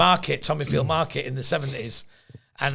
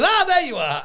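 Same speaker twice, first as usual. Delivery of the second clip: tag; 12 semitones higher, 3 dB louder than usual. Retold or imitated. Acting greeting on finding his friend.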